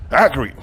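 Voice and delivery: "Acharith" repeated on its own as a model; pronunciation demo. Shown as a demonstration. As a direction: teach the Hebrew word "Acharith" with a falling end.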